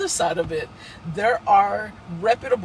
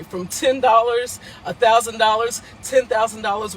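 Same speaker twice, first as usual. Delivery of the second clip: emphatic; 2 semitones higher, 5 dB louder than usual. Real, not acted. Fundraising call, emphasized amounts.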